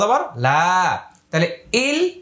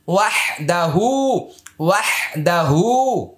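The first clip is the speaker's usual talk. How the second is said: slow recitation. Shown as a demonstration. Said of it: "আয়নাটা হাতে নেন।".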